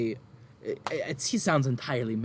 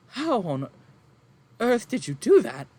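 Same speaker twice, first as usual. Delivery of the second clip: higher, louder gasp of wonder; amazed farm woman; 10 semitones higher, 6 dB louder than usual. Acted. Farm woman to the caster, astonished. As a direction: marvel at the magic. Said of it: "and she's like".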